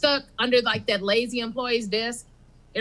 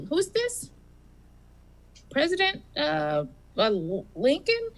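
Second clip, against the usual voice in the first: Bob on the phone; 4 semitones higher than usual. Acted. Bob answers the president.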